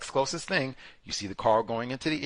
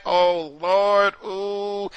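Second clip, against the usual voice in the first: higher, louder oh Lord; mock gasp; 6 semitones higher, 5 dB louder, much slower than usual. Jurors seeing the defendant's height, mock gasp. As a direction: react like you've been caught.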